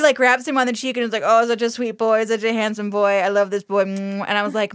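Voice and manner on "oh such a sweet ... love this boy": gushing lady. Retold or imitated. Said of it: "she is fucking drooling all over him".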